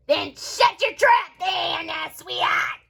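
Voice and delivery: put-on gruff old neighbor shouting; old lady voice. Old lady telling off girl.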